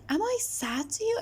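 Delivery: high, startled question; very surprised. Retold or imitated. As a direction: let the pitch jump in disbelief at "sad". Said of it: "Again, very surprised".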